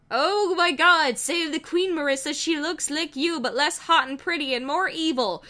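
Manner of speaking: a hint of an alarmed British robot; lightly voiced shocked Wheatley. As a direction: gasp it out at first, then settle.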